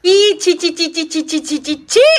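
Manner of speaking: loud, high repeated "ছি" in disgust; disgusted tut-tutting. Real, not acted. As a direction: scold it with "ছি" like something is filthy. Disgusted at the pet. (জোরে ঘেন্নায় "ছি ছি")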